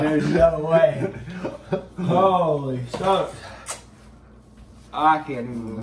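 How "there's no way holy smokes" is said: slow, laughing. Real, not acted. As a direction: drag it out laughing. Laughing through the burn.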